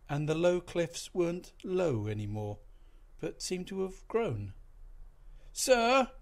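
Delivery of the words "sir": loud high yell; bawling. A narrator's reading. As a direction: bawl it across the deck. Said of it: "bawled the second mate".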